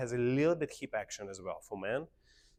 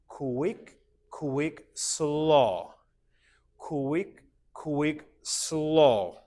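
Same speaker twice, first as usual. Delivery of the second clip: higher, rhythmic chant of the steps, SLOW drawn out and falling; dance count for group; 3 semitones higher, 5 dB louder, much slower than usual. Shown as a demonstration. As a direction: lead the class counting aloud on the beat. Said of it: "Say it together with me".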